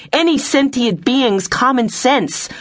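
high, slow, emphatic rebuke; indignant shout. A narrator's reading. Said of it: "she shouted".

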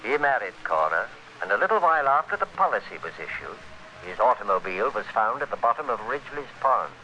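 measured first-person noir narration; hard-boiled radio narrator looking back; story narration. A narrator's reading. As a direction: tell it to the listener like a confession.

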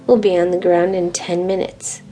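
lightly voiced captain on a crackly intercom; a hint of a pilot announcement; grainy intercom voice. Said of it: "The captain's grainy voice".

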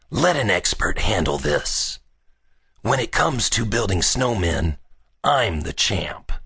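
cocky boy, lightly voiced; boastful Billy. Billy taking over the snowman, mildly cocky boast. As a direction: brag a little, slowing on the last words.

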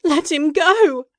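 a frantic plea to release him; desperate demand. A narrator's reading. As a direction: shout at the unseen captor. Mara pleading for Edward.

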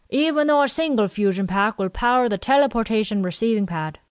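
lightly voiced old quartermaster; a hint of a chatty old supply man. Quartermaster Willie explains supplies to Janae and Ken, lightly voiced old man.

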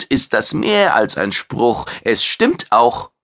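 a vain chef bragging about his fame; proud alien chef. Acted. Maitre insists.

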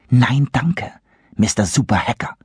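put-on sarcastic girl's put-down; mocking. Serenity mocks Christopher with a sarcastic nickname. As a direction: sneer out the nickname.

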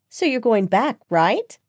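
high, eager question; excited. A narrator's reading. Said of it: "Jennifer excitedly asked".

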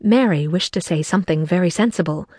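plain reading voice

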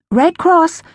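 high sweet stranger voice; same eerie sweet line. A narrator's reading. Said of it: "the woman's voice said".

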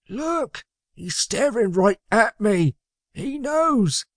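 high, squeaky hushed alarm; high-pitched furtive worry; nervous stage whisper. A narrator's reading. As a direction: confide it nervously out the side of the mouth. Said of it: "Magnus whispered out the side of his mouth".

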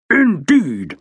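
indignant one-word retort; glaring. A narrator's reading. General to inspector after his excuse, glaring. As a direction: throw it back, affronted. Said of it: "Raikes glared at him".

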